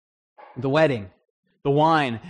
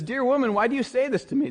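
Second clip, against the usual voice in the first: higher, mild and patient; lightly voiced Jesus; gentle Jesus; 8 semitones higher than usual. Jesus answering his mother at the wedding, gently.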